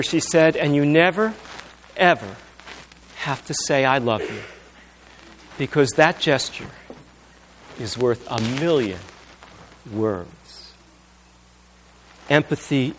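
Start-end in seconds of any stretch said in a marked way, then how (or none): 0.6-10.3 soft, lower, sinking to almost nothing; tender and hushed. Retold or imitated. Wife telling her husband tenderly, soft and fading. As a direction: speak it gently, fading out.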